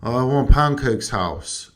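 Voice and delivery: lightly voiced Swedish accent, slow; a hint of a Swedish speaker. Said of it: "just some of the stuff he says".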